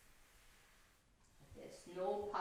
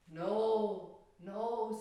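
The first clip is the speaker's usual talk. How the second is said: reassuring lamb; 7 dB louder than usual. Acted. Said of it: "said the lamb".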